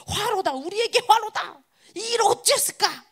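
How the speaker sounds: high wail of mock dismay; acted panic. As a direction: cry out like an army in uproar. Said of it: "막 이렇게 막 난리가 난 겁니다". (난리 난 듯 높게 탄식하는 흉내)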